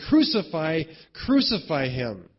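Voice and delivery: emphatic, falling stress on both "Crucify"; emphatic retold cry. Crowd responds to Pilate, emphatic retold demand. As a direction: punch "Crucify", then "crucify", as a mild mock outcry. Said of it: "an emphatic thing".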